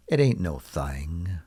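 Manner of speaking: a hint of southern US accent; slight southern US accent. Shown as a demonstration. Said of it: "used a little bit of an accent".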